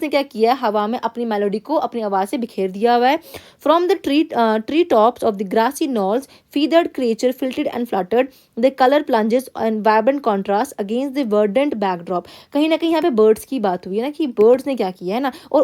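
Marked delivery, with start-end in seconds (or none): 3.7-12.2 slow, careful classroom read-aloud; teacher reading a text to the class. Acted. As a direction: read the passage word by word, x0.3 pace. Teacher reads passage aloud.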